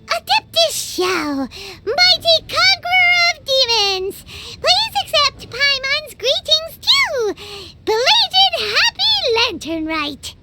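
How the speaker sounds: slow, stiff mock-formal address with a lifted pitch; fancy formal greeting. Companion greeting a stern immortal, slow mock-grand formality. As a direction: try too hard to sound grand and respectful. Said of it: "Paimon tried very hard to look for a fancy word".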